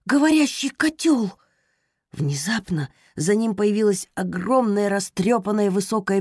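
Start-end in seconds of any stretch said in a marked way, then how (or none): 0.1-1.3 higher, surprised exclamation; startled gasp. Acted. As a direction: blurt it out in shock. Rosa startled by cauldron. (испуганное удивление)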